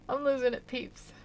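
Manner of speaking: LOSING pushed up high and loud. Real, not acted. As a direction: raise your voice on "losing".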